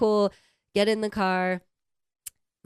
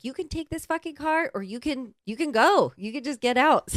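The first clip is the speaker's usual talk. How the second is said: retold angry ultimatum; 7 semitones higher than usual. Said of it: "So she's like".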